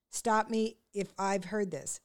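deliberate word-by-word correction; slowed down for someone to copy; slow, careful repeat. Retold or imitated. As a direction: patiently coach the title, slowly. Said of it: "doesn't matter how slow you say it".

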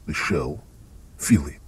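vampire lord whisper. Acted. Strahd whispers a dark bargain.

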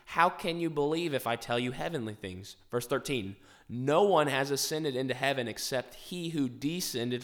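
emphatic Bible reading, key phrases lifted; Scripture reading. Acted. Host reads Jesus' words to the study group, emphatic Scripture reading. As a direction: read the verses out with deliberate weight.

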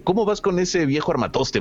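high, lively cartoon voice; cartoon character voice. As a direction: read it like a cartoon hero. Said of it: "y dice".

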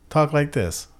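slow mock South African accent; lightly put-on South African accent. Shown as a demonstration. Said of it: "if you wanna talk like someone".

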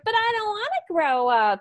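put-on high, childish protest; whiny young horse. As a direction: voice a horse refusing to grow up. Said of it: "he's like".

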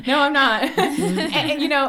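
real laughter, high and loud; laughing along at the joke. Real, not acted. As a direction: laugh it off, amused. Laughing at not Susan.

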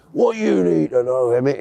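lightly imitated Welsh officer; Welsh accent. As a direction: have a rough go at a Welsh accent. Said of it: "in a Welsh voice".

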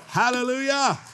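high, ringing cry of praise; praise exclamation. Real, not acted. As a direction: cap the point with a high-pitched exclamation. Preacher caps scripture with praise cry.

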